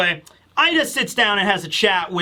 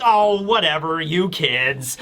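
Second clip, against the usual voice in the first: unbothered; 2 semitones lower, slower than usual. Retold or imitated. Woman not letting the boys' insults get to her, unbothered. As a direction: lightly imitate shrugging off rude kids. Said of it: "not letting it get to her".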